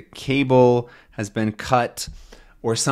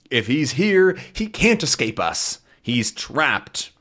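voiced villain; 3 semitones higher than usual.

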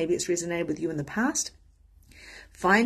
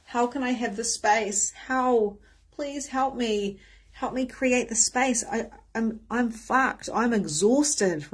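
pleading; 4 semitones higher, slower than usual. Retold or imitated. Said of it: "because I was asking".

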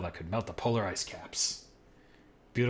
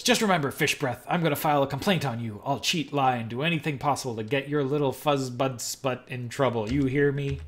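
heated voice; 3 semitones higher, 3 dB louder than usual. Acted. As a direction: fire it back at the cop, heated. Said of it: "She replies in a heated voice".

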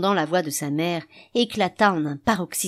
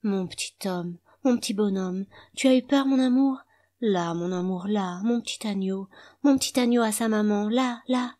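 murmuring; 4 semitones higher than usual. A narrator's reading.

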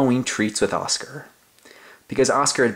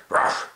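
dog bark. Acted. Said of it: "with a loud bark".

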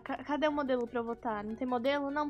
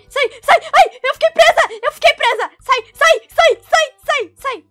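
high loud frantic pleading; panicking while trapped; panicked; 10 semitones higher, 13 dB louder than usual. Real, not acted.

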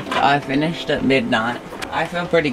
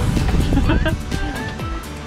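light laugh; 8 semitones higher than usual. Real, not acted. Laughs while saying good night.

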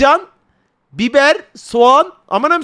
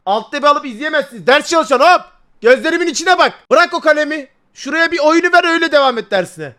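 mock stern teacher; 4 semitones higher, 4 dB louder than usual. Streamer playfully scolds studying viewers.

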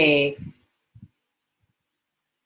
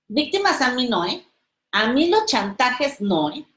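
cold dismissal; 4 semitones higher than usual. Retold or imitated. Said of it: "Así te lo dicen".

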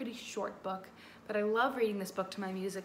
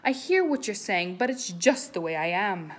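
mopey fish; 9 dB louder than usual. Acted. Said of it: "says the fish to his friend".

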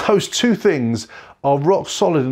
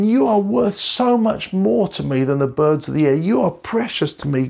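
God comforting; 5 semitones higher than usual. Retold or imitated. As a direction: speak as God soothing a hurting child. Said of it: "God is whispering".

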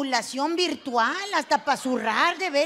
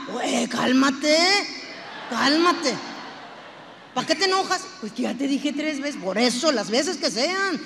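mock scolding; 3 dB louder than usual. Husband telling his wife to calm down, loudly scolding. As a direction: push back hard at her tone.

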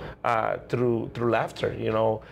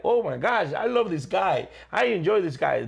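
imitating gushing fans, pitched up; mock gushing, a higher voice; delighted fans; 5 semitones higher than usual. Audiences gush about the clown, imitated delight.

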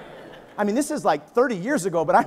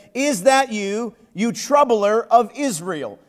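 slow accusing king; much slower than usual. Acted. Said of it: "he said to him".

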